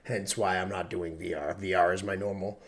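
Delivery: rough, sick, hoarse voice; hoarse from flu. Real, not acted. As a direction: voice worn raw by flu. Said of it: "recovering from a horrible flu".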